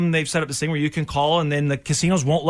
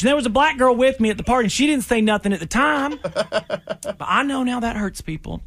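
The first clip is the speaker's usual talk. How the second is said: mock Southern cop apology; 5 semitones higher than usual. Parody cop apology video.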